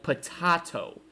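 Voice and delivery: "potato" echoed with an "ah" middle vowel; mocked pronunciation. Disputing how anyone says it, "potato" mimicked as puh-TAH-toh. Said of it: "Nobody pronounces it like".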